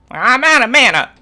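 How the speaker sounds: loud frustrated cry; exclaiming. Real, not acted. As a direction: blurt it out, annoyed. Game frustration outburst.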